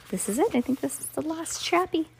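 ordinary delivery, nothing marked

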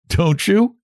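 high, knowing little question; significant. A narrator's reading. Frances answering her sister, knowing and significant. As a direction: ask it meaningly, voice lifted. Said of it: "laughed Frances significantly".

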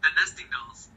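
bitcrushed robotic audio; glitchy digital connection. Real, not acted. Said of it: "your voice went all robotic".

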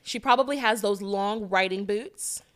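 a hint of prep-school pretty girl; Amanda. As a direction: lightly play a boarding-school girl from Connecticut. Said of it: "pretty girl voice sound like a white girl named Amanda".

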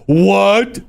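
high, slow, outraged squeal of disbelief; a mock-outraged Texan, pitched high and drawn out; indignant Texan. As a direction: play an offended Texas fan. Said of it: "Texas people ... getting all your shoulders all jacked up".

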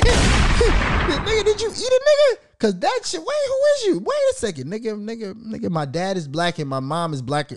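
high-pitched mock cousin voice, rising; imitating cousin. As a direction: squeal it out like a goofy cousin. Cousin voice continued, laughing.

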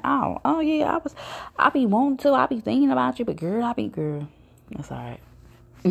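high, fumbling excuse as the friend; flustered excuse. Retold or imitated. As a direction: stammer out a lame excuse.

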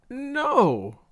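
high, falling wail; mildly tearful. A narrator's reading. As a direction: wail the word plaintively. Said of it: "Loretta was crying".

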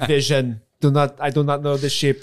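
lightly put-on Sokovian accent; a hint of a Sokovian accent as Vision. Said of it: "was that your Russian accent".

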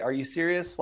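lightly voiced astonished seller; incredulous caller. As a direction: imitate a caller who can't believe it.

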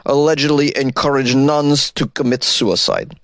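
put-on slow, heavy Russian accent read. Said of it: "Should I do a Russian accent?".

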